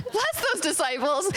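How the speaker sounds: lightly imitating a Southern lady; Southern lilt. Pastor blessing the disciples in mock Southern sweetness. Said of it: "So when I said".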